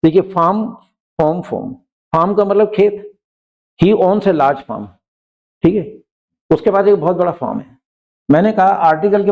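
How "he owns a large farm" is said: slow, careful example sentence; dictating pace; slow example read. Shown as a demonstration. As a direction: read it out word by word for the class. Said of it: "slow example".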